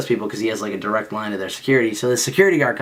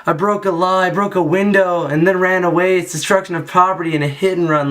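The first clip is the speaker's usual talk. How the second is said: retold panic; 7 semitones higher than usual. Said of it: "I'm like".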